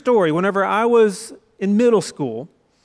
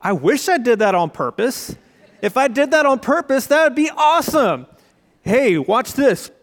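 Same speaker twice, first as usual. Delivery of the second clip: gleeful brag; 4 semitones higher than usual. Retold or imitated. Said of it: "And I'm like".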